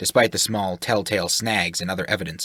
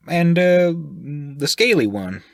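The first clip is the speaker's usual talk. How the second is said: higher and louder, nosy and blunt; brash sailor voice; 8 semitones higher, 5 dB louder than usual. Acted. The sailor asks the group who they are, brash and loud. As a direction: fire questions like a brash sailor.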